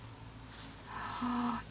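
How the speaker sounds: soft, high intake of breath; long breath drawn in with wonder; surprised gasp. Real, not acted. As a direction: gasp softly in amazement. Surprised by many napkins.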